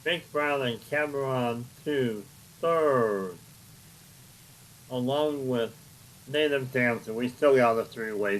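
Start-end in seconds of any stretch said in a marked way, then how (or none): 0.0-3.3 results announcer. Acted. Results call.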